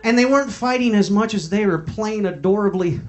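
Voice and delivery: giggling insistence; laughing. Real, not acted. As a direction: insist while cracking up. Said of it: "laughing insistence".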